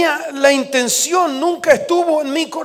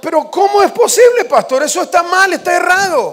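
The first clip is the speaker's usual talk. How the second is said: indignant protest; 5 semitones higher, 4 dB louder, faster than usual. Retold or imitated. Protesting to his pastor.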